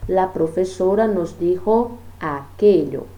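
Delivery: slow, deliberate example sentences; a teacher modelling the swaps at a careful pace; slow demo reading. Shown as a demonstration. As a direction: read each substitution out slowly. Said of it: "Vamos fazer o teste?".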